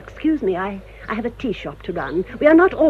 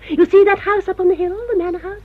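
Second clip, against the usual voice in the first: higher, louder haughty pointing-out; proud declaration; 11 semitones higher, 5 dB louder than usual. Acted. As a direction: show off the family seat. Proud old woman points out house.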